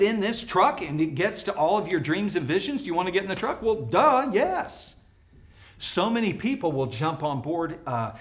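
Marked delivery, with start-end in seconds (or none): 3.6-5.0 well duh. Acted. Obvious answer to rhetorical question.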